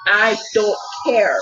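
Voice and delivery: rattled off fast, defiant; fast defiant self-talk. Retold or imitated. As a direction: fire it back at your fear, quickly. Fast defiant inner talk to fear.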